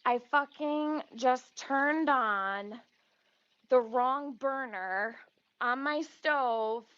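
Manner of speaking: dismayed disbelief. Real, not acted. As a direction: spell out the blunder slowly, stunned. Stunned at own mistake.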